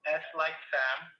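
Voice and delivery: slow, spelled-out letters; dictating slowly. Real, not acted. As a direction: spell each letter out carefully. Agent spelling out web address.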